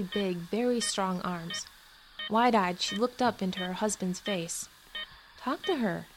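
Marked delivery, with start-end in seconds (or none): 5.4-6.1 gentle urging. Acted. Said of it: "the woman's voice urged gently".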